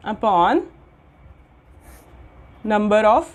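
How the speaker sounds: slow word-by-word dictation with long pauses; one word at a time for note taking; dictating slowly. Shown as a demonstration. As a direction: spell out each word for students to copy. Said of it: "dictating formula".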